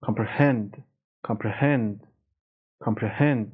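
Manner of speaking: comprehend, final syllable stressed; stress on last syllable. Shown as a demonstration. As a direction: lift the pitch on hend in comprehend. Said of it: "استرس هم رو بخش آخره".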